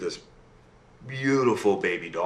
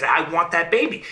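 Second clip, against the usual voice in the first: higher-pitched, insistent demand; 6 semitones higher than usual. Acted. Imp refuses the princess's riches, higher and insistent. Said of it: "But he insists".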